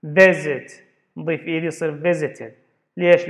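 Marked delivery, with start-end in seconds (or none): 0.1-0.7 "visit" with a louder first syllable; stress on first syllable. Shown as a demonstration. Teacher giving an example of stress, "visit" hit hard on the first syllable. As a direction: punch the start of "visit". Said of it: "stress is on the first".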